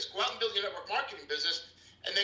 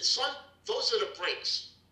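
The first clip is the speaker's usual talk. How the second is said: father's deadpan line; 5 semitones higher, slower than usual. Retold or imitated. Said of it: "He pointed at the wheel and said".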